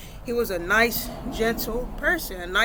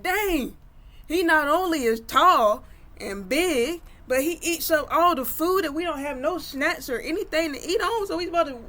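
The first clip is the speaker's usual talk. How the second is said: high, pitched-up indignant whine; whiny complaining Ricochet; 7 semitones higher than usual. Acted. Ricochet griping to friends about the giant, high indignant whine. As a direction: squeak out the complaint in disbelief.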